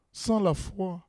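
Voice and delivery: echo. Shown as a demonstration.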